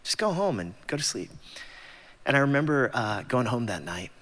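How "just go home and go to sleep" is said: higher, casual bro breaking it up; lightly voiced teammate. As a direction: play the dude stepping in. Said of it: "They're like".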